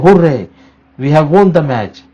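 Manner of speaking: a small mock victory shout on हुर्रे; mild cheer. Shown as a demonstration. Teacher demonstrating joy for students, mildly excited. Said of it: "ये खुशी को explain कर रहा है".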